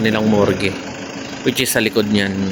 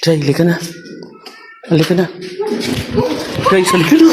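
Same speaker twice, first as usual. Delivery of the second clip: calling out; 7 semitones higher, faster than usual. Real, not acted. Scared, calling friends to leave.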